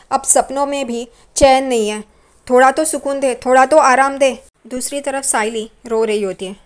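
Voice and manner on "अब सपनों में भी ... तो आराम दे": desperate plea. Acted. Tejas pleads to God after dream.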